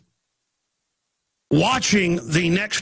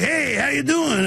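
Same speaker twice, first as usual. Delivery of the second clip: high, slow, put-on friendly greeting; mock cop greeting; 8 semitones higher, slower than usual. Undercover cop greeting him on the street, high hammed-up hello. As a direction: ham up a fake cheerful hello.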